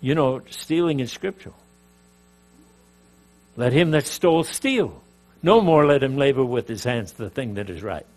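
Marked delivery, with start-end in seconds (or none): 3.6-8.1 "Let him that stole steal", stop after steal, then "No more" opens afresh; full stop after "steal", hit "No more" as a new command; misplaced emphasis. Shown as a demonstration. Preacher jokingly justifying his stealing by scripture, misplaced emphasis. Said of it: "It depends on where you put the emphasis".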